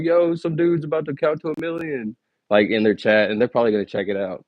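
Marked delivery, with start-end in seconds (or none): 0.0-2.2 imitating a hyped viewer, much higher and slower. Imagined viewer telling his chat, hyped and much higher. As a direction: pitch up and play an excited stranger. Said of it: "they're gonna be like".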